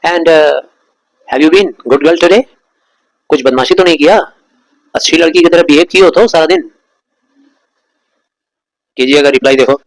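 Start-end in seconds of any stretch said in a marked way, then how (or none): 0.1-6.7 father's orders. Retold or imitated. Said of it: "पापा जैसे ही उसको देखते थे बोलते थे".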